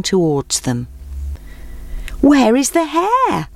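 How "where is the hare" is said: higher, slow call across the clearing. Acted. Animals call out to the arriving tortoise. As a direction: shout the question to the newcomer. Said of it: "they called out".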